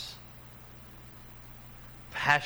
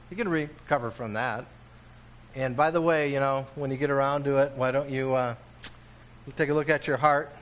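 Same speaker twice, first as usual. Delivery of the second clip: breezy, offhand mock version of God, quicker; mock casual God; faster than usual. Preacher mocks a casual God speaking to his people, breezy. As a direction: toss it off like a shrug. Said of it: "He's not saying that at all".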